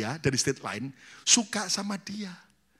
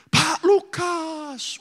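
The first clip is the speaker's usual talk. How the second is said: calling the pastor; 12 semitones higher, much slower than usual. Retold or imitated. Church member calls the pastor.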